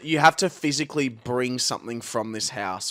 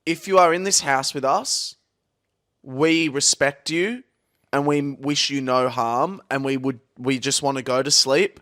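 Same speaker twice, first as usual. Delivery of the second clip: respectful appeal. Real, not acted. Addresses the ghost of the house.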